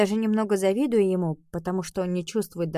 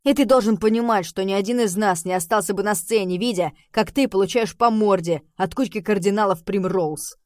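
angry shouting; 6 dB louder than usual. Acted. Rem's heated speech continues.

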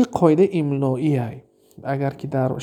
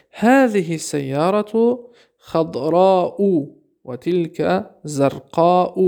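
slow, careful Arabic read-aloud; much slower than usual. Shown as a demonstration. Teacher reading an Arabic example to the class, slow and careful. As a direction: spell out each word slowly for students. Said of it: "teacher reads Arabic example".

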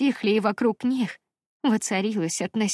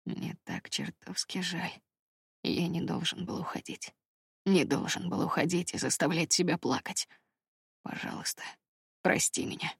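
soft remorseful plea, much softer; tender apology; 5 dB quieter than usual. A narrator's reading. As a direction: plead gently with the woman he loves.

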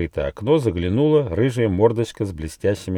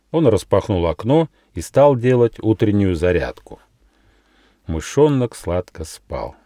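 usual speaking voice

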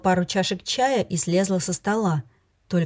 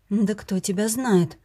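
suspicious; slower than usual. Acted. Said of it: "подумала подозрительно".

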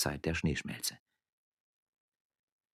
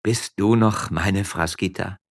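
slow, earnest call; tearful sincerity; 3 semitones higher, 6 dB louder, slower than usual. Acted. Miller asking whether she is still his wife, earnestly tearful. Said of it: "Mit Tränen in den Augen rief er voller Aufrichtigkeit".

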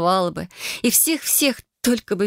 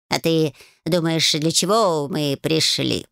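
snort; slower than usual. A narrator's reading. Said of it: "фыркнул Баюн".

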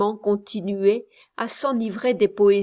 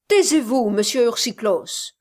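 louder, cutting him off; sharp command; 4 dB louder than usual. Acted. Miss Campbell silencing Ursichlos, sharp and loud.

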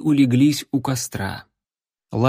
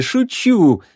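laughing; 9 semitones higher, 4 dB louder than usual. Acted. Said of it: "девушка засмеялась".

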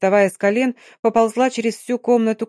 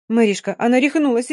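panicked cry, louder, calling for help; desperate shout; 3 semitones higher, 3 dB louder than usual. Acted. Dina calling to Mary for help, desperate shout. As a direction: cry out to a friend in alarm. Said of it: "отчаянно закричала Дина".

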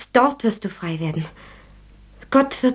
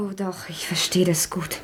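gentle whisper; 4 dB quieter than usual. Acted. Friend insists she understands.

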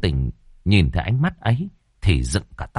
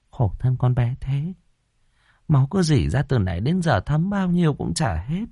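sad lament; 6 semitones higher than usual. Acted. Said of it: "bà than thở".

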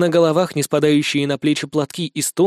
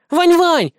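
high, loud calling wail; girl loudly wailing for Vanya; 13 semitones higher, 5 dB louder than usual. Acted. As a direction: holler his name like a kid sister. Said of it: "громко заголосила младшая".

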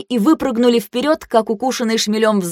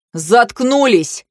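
slow, drawn-out, raised command; exasperated order; 4 semitones higher, much slower than usual. A narrator's reading. Leader silencing two quarrelling girls, drawn-out exasperated order. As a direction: stretch it out to silence them. Narrator voices shouted order to squabblers.

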